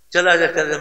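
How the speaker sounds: angry mother. Retold or imitated. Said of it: "مجھ پر غصے سے بولی".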